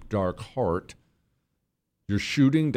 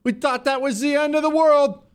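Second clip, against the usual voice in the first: much higher falsetto parody of a tearful woman; mock weepy woman. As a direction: mimic her fake emotional sobbing, way up high. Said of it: "she sounds like it".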